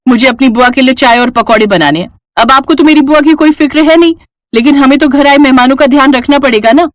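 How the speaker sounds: lightly voiced huffy Naina; taunting sister-in-law. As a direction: needle her with mock duty.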